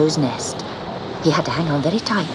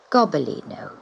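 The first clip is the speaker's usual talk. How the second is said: kindly; 2 semitones lower, 4 dB quieter than usual. Acted. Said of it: "he said kindly".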